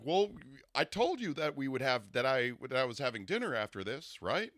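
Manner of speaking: lightly put-on formal voice; a hint of his announcer cadence; imitating his date. Her date claiming he told her, light formal impression. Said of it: "I'm gonna imitate his voice".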